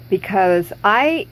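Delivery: speaking without any teeth; toothless. Real, not acted. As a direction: toothless gummy speech. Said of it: "without my teeth at all".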